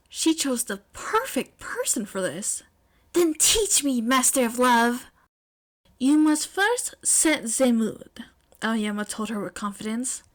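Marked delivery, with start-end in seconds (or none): 3.1-5.0 eager plea. Acted. May eagerly asks. 6.0-8.2 slow grand decree. Acted. Aoyama declares slowly.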